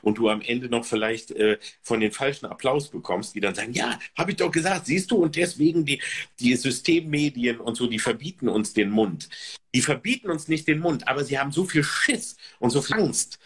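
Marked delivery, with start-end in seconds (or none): 3.7-9.3 nachgeahmte Rechthaberei. Retold or imitated. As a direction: imitate smug complainers, pitch raised at first. Spielt triumphierende falsche Applaudierer nach. (rechthaberisch nachgeäfft, anfangs höhere Stimme)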